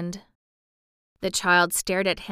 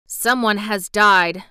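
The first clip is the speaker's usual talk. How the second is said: grave; 7 dB louder, slower than usual. Acted. Officer gives grim news.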